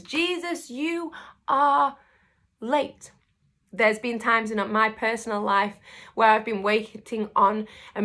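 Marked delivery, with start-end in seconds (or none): 0.0-3.1 higher, whining hurt tone on "you are late"; a wounded, pleading complaint; plaintive reproach. Retold or imitated. Preacher voicing Mary's hurt at Jesus, higher and plaintive.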